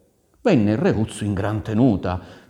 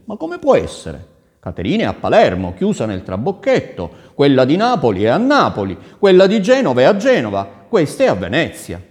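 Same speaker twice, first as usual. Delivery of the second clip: loud, excited tally with pitch leaps; bewildered prince; 6 semitones higher, 8 dB louder than usual. Acted. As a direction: count them off in mounting, projected bafflement. The prince puzzles over the lookalikes. (principe sbalordito, voce alta e concitata)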